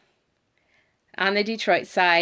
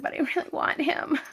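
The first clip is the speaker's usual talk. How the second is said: put-on higher, childlike begging to her husband; mock pleading; 8 semitones higher than usual. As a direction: whine it like a kid who wants a toy. Pleading with husband over puppy.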